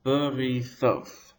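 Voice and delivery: "Berithoth" drawn out slowly, syllable by syllable; slow syllable demonstration. Shown as a demonstration. Teacher pointing out syllables before the stress, "Berithoth" slowly drawn out. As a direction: stretch "Berithoth" so that "ri" is heard before stressed "thoth". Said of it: "before the stress".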